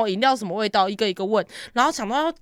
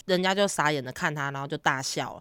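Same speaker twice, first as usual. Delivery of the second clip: ordinary talk, nothing marked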